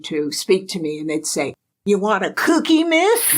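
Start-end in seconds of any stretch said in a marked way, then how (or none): 1.9-3.3 kids mimicking an American accent. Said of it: "In an American accent".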